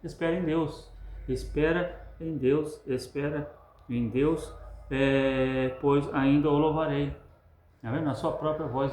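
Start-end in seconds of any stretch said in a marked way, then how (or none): 0.0-7.2 inner voice answering. Acted. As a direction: answer yourself with hope, stretched out. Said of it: "a voz interior dele mesmo responde".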